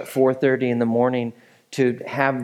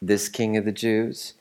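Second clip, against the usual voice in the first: sarcastic; 3 semitones lower, 4 dB quieter than usual. Acted. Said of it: "You can just hear the irony and sarcasm dripping".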